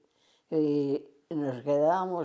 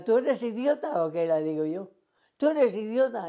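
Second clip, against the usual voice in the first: high, incredulous telling-off; scolding a friend beaten by her husband; 4 semitones higher than usual. Retold or imitated.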